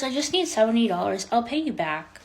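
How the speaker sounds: lightly mock a hurried request for cash; imitated money plea. Date pressing her for money.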